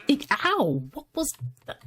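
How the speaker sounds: sudden high ow; startled yelp. Real, not acted. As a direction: caught off guard, yelping. Attacked by goat.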